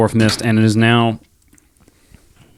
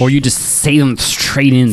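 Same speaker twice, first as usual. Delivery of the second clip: slow put-on voice; slower than usual. Joking slow voice.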